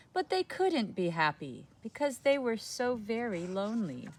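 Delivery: put-on reading to children; gentle storybook telling; story narration. A narrator's reading. Reading a picture book aloud.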